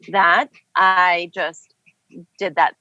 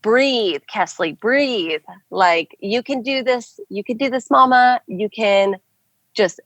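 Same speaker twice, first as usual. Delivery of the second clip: slow, higher soothing coach voice; self coaching; 3 semitones higher than usual. Retold or imitated. Coaching herself through contractions, slow and soothing. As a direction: talk yourself through it gently. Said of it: "Listen to her".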